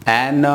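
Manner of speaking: "एन" said the wrong way; wrong pronunciation. Shown as a demonstration. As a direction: demo the mistaken "एन". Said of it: "wrong होगा।". (गलत "एन" का उदाहरण)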